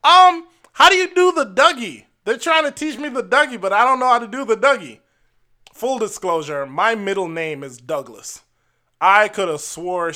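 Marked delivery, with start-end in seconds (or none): 0.0-5.0 high, fluttery mock elderly lady voice; imitating a high-pitched elderly white lady; old lady imitation. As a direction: squeak it out like a sweet old grandma. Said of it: "she was like".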